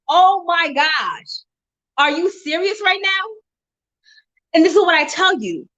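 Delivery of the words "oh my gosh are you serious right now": excited scream. Retold or imitated. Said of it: "I was screaming".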